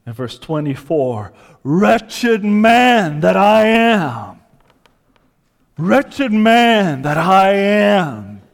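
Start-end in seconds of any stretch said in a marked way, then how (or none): 1.6-4.4 slow, loud anguished cry; a hint of a shriek; mock shriek. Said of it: "He shrieks". 5.8-8.4 slow, loud anguished cry; a hint of a shriek; mock shriek. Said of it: "He shrieks".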